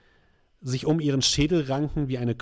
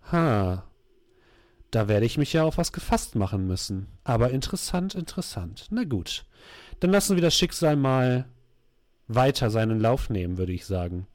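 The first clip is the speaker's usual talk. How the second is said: dark sorceress voice; 2 semitones lower than usual. Acted. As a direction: savour the words like a villain. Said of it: "in einer düsteren Stimme".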